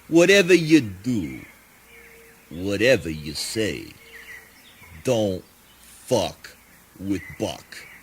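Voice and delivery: mock-solemn recitation; recited poem. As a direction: recite it slow like verse. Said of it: "I got a little poem for you boys".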